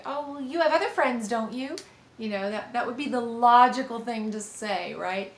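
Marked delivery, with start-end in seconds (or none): 0.1-1.8 dismissive advice. Shown as a demonstration. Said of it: "try to give advice or say".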